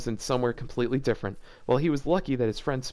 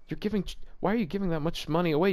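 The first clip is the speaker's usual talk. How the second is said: incredulous; 3 semitones higher, faster than usual. Real, not acted. Arguing with the story's logic.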